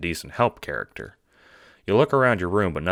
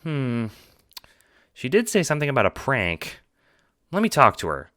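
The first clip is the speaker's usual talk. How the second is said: put-on much higher, eager young John; 9 semitones higher, 3 dB louder than usual. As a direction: pitch way up as the cheerful friend. John reconsidering.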